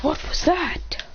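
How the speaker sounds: lightly acted surprise; acted questioning exclamation. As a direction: stretch it out in mild disbelief. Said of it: "He goes".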